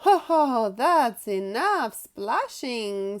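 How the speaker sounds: jolly Daddy Pig. Acted.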